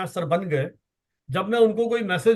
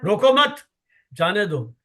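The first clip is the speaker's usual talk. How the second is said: "रोको मत" raised, pause, "जाने दो" dropped; pause after second word. Shown as a demonstration. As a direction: break after "रोको मत" to mean let him go. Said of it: "एक comma लगा करके उसका अर्थ बदल दिया".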